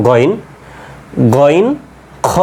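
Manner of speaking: "গইন" and "খ" scraped from the very back of the throat; back-throat Arabic "গইন"; teacher modelling back-throat letters; Arabic ghain and kha. Shown as a demonstration. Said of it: "একবারে শেষ ভাগ থেকে উচ্চারণটা হচ্ছে".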